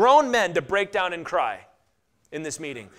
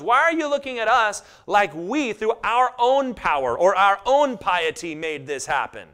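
Peter protesting loudly; 3 semitones higher, 5 dB louder than usual. Acted. Peter tells the gawking crowd, loud and pressing. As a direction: demand the crowd stop staring. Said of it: "he goes".

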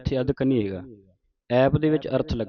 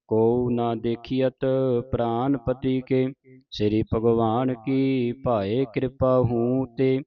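measured chant-like verse reading; sustained teaching recitation; scripture recitation; slower than usual. Shown as a demonstration. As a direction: recite in phrases, holding the long vowels.

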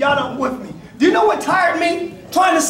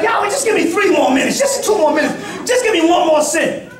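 bargaining; 3 semitones higher than usual. Retold or imitated. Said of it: "It's like".

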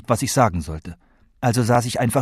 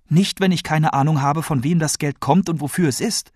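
lightly voiced grandmother, higher and testy; exasperated grandmother; 6 semitones higher than usual. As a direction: put a touch of exasperation in the grandmother.

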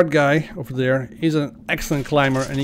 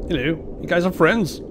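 playful put-on English accent, pitched up; 4 semitones higher than usual. Gamer greets two friendly game characters, mock English accent. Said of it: "I don't know what the English accent is for".

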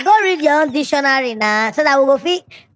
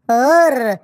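Indian accent imitation. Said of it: "Indian man dey try speak".

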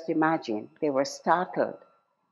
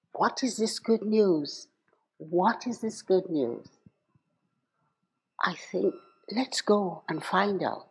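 softer, wondering talk between shepherds; hushed shepherds; 7 dB quieter than usual. Retold or imitated. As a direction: lean in and wonder quietly together. Shepherds whisper among themselves.

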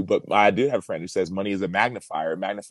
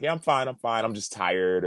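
higher, falsely casual reassurance; lying brush-off; 4 semitones higher than usual. Retold or imitated. Player lying to a concerned teammate, falsely breezy. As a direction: brush it off as if fine. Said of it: "I would lie".

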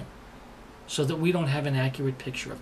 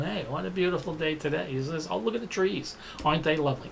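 mock carefree stroll; faster than usual. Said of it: "casually meandering around going".

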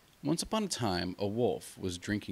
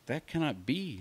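lamb protesting; 6 semitones higher, 3 dB quieter than usual. Acted. Lamb voiced in fable.

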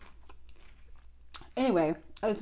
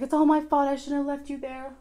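imitating crying friend; 6 semitones higher than usual. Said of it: "She started crying".

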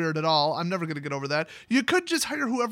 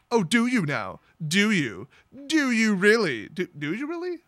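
mocking. Joyra mocking the boy.

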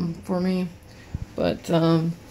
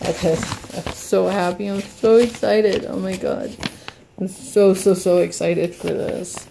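excited; 4 dB louder than usual. Real, not acted. Gushing over the unboxed painting.

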